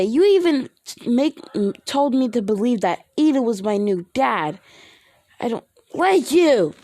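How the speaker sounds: put-on high, loud little-girl yell; child's scream. Eri yelling at Bakugo from behind his leg, high scream. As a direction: shriek it like an upset small child hiding behind a leg. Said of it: "she would scream".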